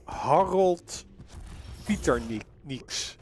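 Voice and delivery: "Harold Pieternieks" attempted as a Latvian name; careful go at "Harold Pieternieks", dropping away on the surname; attempted Latvian pronunciation. Shown as a demonstration. Co-caster trying his partner's Latvian name, careful foreign pronunciation. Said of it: "Surprisingly good, the pronunciation".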